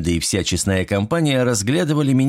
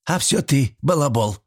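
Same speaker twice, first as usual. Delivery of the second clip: higher-pitched teasing jab; old woman's mild teasing; good-natured needling; 7 semitones higher than usual. A narrator's reading. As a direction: needle him without malice. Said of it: "беззлобно поддела Степанида".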